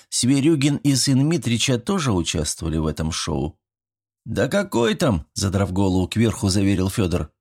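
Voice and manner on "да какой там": lightly voiced boy. A narrator's reading. Boy dismissing.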